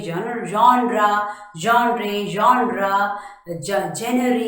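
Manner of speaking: genre as YON-ray, JEN-ruh; wrong ways shown. Shown as a demonstration. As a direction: run through the mistaken genre takes. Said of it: "is being pronounced as genre".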